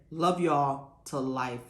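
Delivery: slow, tender farewell; warm sign-off. Real, not acted. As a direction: lean into "love", slow. Sign-off affection.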